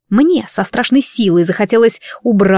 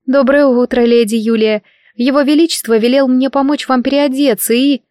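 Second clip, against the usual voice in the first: put-on higher, light servant-girl voice; young maid, polite; 5 semitones higher than usual. Maid greets Lady Julia on His Majesty's orders, polite and high. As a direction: deferential young maid, pitched up.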